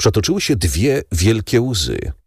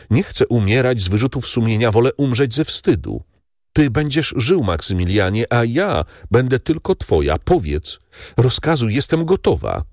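put-on resolute young woman; 5 semitones higher than usual. Valentin gives herself to Morel.

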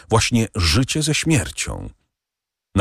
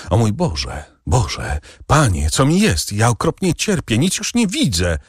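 agonized cry. Acted. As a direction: cry out as if burning from within. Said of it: "krzyknął Barrois". (przerażony krzyk z bólu)

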